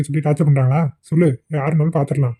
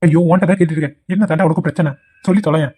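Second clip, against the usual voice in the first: exasperated, impatient demand; a touch of irritation, pressing for an answer; mildly angry; faster than usual. Acted. Friend pressing his mate to spill the problem, mildly angry. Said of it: "மச்சி, மச்சி, கோவப்படாத".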